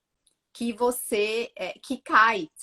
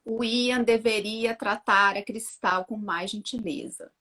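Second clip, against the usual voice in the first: slow, measured sentence, as if writing; slower than usual. Retold or imitated. Mother writing a sentence about her son, measured. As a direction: say it slowly, word by word. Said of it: "Aí eu comecei a escrever".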